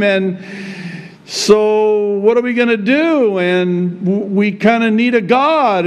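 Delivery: hammed-up modern slang; casual Israelites. Israelites pester Aaron about Moses, lightly voiced slangy tone.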